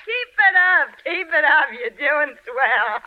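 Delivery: mocking laugh. Wife scorning her husband's insults, laughing mockery. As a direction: goad him with a laugh.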